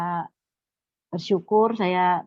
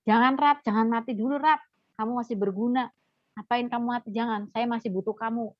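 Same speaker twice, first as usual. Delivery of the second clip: higher-pitched appeal to a friend; retold pleading; 4 semitones higher than usual. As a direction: beg them to hold on, retelling it. Retold begging friend not to die. (membujuk dengan nada memohon)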